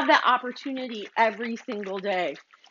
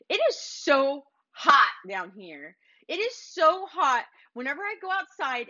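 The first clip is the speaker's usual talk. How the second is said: complaining man. Pretend. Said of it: "the man goes".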